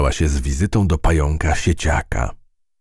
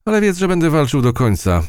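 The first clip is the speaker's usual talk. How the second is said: raised, defiant vow; 12 semitones higher, 4 dB louder, faster than usual. A narrator's reading. Harvestman to the mouse, a raised, defiant vow. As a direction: swear to fight to the end.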